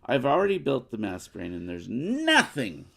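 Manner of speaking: fast, loud gloating villain; telenovela villain. Acted. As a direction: boast like a soap opera villain. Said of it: "She just sounded like a telenovela villain, revealing her plan".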